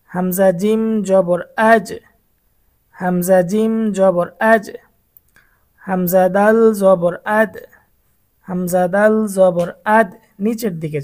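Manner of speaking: আজ and আদ end with a falling bounce; downward echo drill. Shown as a demonstration. Teacher drills the falling echo for students. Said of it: "এই তিনটার প্রতিধ্বনিটা নিচের দিকে আসবে".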